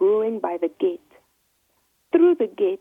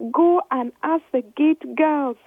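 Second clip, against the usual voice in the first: higher, louder, slow tearful plea; mild acted sob while pleading; sobbing; 7 semitones higher, 5 dB louder than usual. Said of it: "sobbed Anna".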